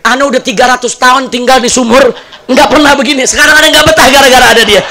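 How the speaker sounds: a fed-up jinn begging to get out; an old well jinn driven out by the nagging wife; exasperated old jinn. Acted. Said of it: "itu kakek yang keluar jin sumur".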